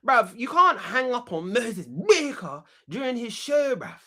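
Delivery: indignant. Acted.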